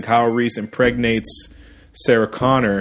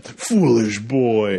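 sinister villain aside; much slower than usual. Retold or imitated. Mocking villain's line.

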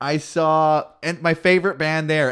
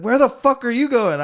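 loud, raised mock pirate challenge; hammed-up pirate demand; imitated pirate; 9 semitones higher, 5 dB louder than usual. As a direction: call out like a pirate leader. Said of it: "he had a Swedish accent".

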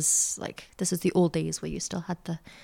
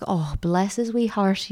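sympathetic stewardess; 2 semitones higher, slower than usual. Retold or imitated. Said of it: "she was super sympathetic".

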